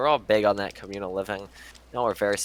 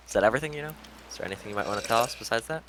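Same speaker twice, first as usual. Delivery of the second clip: deepest voice attempt; 3 semitones higher, faster than usual. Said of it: "I asked in the deepest voice I could summon".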